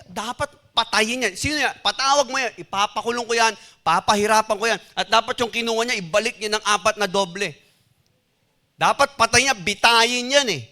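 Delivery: David decrees the rich man's punishment, mildly angry; mild anger. Acted. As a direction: lay down the sentence like an offended king, understated. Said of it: "Galit na galit po si David".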